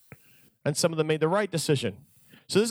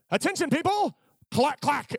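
Moses calling out; 8 semitones higher than usual. Retold or imitated.

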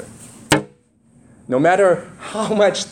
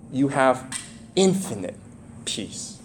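hushed; 4 semitones lower, 7 dB quieter, slower than usual. Acted. Sermon climax on peace.

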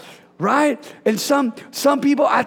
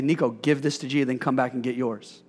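dad's quiet instruction; 9 semitones lower, 7 dB quieter than usual. Retold or imitated. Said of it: "I'll say".

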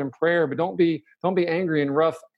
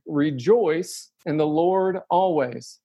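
slow solemn command; much slower than usual. Shown as a demonstration. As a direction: read the command slowly, each word weighed. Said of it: "and this is a command".

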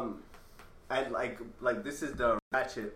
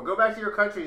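higher, louder quoted heckle; mock heckler; 7 semitones higher, 6 dB louder, faster than usual. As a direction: toss out the old slur line. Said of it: "you can't say that anymore".

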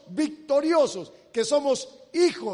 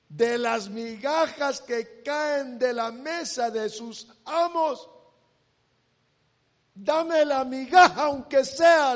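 rising louder into a plea; pleading cry; 3 semitones higher, 5 dB louder than usual. Acted. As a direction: beg for just a crumb. La mujer pide las migajas. (súplica cada vez más fuerte)

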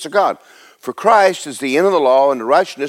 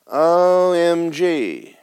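drawn-out, higher-pitched mock awe; mock amazement; 4 semitones higher, much slower than usual. Preacher showing congregation how to react, mock amazed. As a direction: stretch each letter out in pretend astonishment. Voices listeners grasping the teaching.

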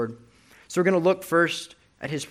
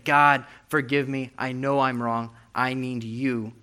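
desperate cry. Retold or imitated. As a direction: cry out to God, then fade into slow pleading. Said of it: "he's crying out desperately".

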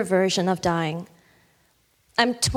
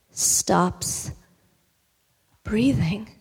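whisper; much slower than usual. A narrator's reading. Mother stops breathing, hushed.

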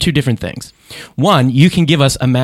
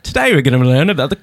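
British attempt slipping into Australian; teacher voice drifting towards an Australian accent; accidental Australian accent; faster than usual. Host botching his British teacher impression, Australian accent. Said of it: "no, no, it's Australian".

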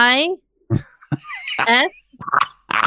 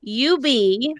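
slow spelling; 2 semitones higher, much slower than usual. Shown as a demonstration. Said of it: "Spell it".

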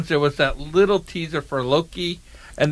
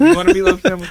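yelling across the room; 10 semitones higher, 3 dB louder, faster than usual. Retold or imitated. Mom's reply voiced.

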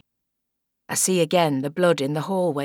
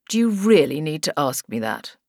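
a hint of cold scorn; scoffing; 3 semitones lower than usual. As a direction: brush the question off with contempt. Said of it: "He scoffs".

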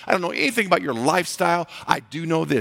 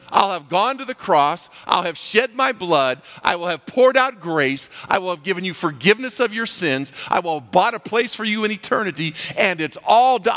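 triumphant declaration; 4 semitones higher than usual. Acted. Preacher voices Jesus, building list.

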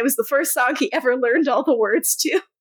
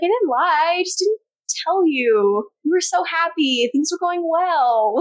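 higher, pleading protest; whiny Elena voice; 6 semitones higher than usual. Retold or imitated. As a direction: defend yourself, a bit whiny.

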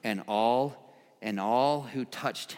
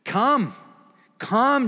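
Jesus inviting; 11 semitones higher, 7 dB louder than usual. Retold or imitated. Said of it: "Jesus said".

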